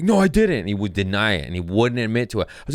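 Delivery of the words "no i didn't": high, loud protesting denial; pitched-up retold protest; mock denial. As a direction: imitate an indignant coworker denying it. Acts out coworker's denial.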